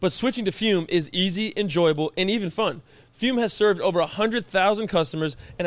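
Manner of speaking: scripted podcast sponsor read. Shown as a demonstration. Host pitching Fume to listeners, ad read. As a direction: read the promo copy with steady emphasis.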